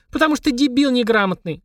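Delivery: shrieking in fury. Acted. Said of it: "заверещала Полина, аж подпрыгивая от ярости".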